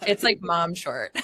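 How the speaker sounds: said through a laugh; chuckling as she repeats it. Real, not acted.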